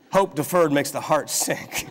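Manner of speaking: laughing. Real, not acted. Pastor laughs, re-quoting the verse to his congregation. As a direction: giggle out the proverb.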